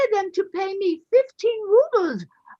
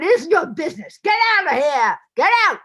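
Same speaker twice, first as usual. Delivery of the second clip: retold outcry; 4 dB louder than usual. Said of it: "He just cried out".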